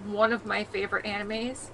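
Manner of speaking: quiet pleading. Retold or imitated. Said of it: "And it was one of those".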